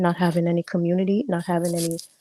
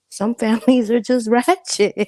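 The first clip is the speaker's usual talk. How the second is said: louder, laughing through it; laughing emphasis; 4 semitones higher, 4 dB louder than usual. Real, not acted. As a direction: say it again with a laugh. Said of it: "Do I need to say it again?".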